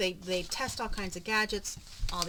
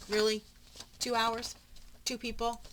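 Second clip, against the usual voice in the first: indignant disbelief; 4 semitones higher, 4 dB louder than usual. Real, not acted. Outraged at the clerk.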